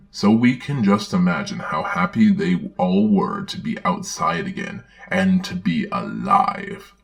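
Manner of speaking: put-on gentle read-aloud for children; storybook reading. Narrator reading a Bible story to children, storybook voice.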